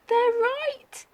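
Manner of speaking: glum giraffe. Acted. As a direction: sound small and defeated. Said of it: "he thought".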